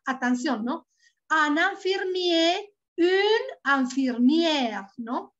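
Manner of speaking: slow, clear drill of word pairs. Shown as a demonstration. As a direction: model each form slowly for learners. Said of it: "teacher drills word pairs slowly".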